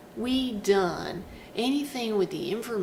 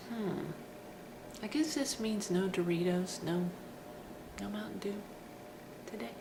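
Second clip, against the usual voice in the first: deflated; 5 dB quieter than usual. Retold or imitated. Fan gives up disappointed.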